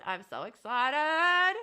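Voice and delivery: drawn-out, slow excited. Real, not acted. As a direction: stretch it out slowly.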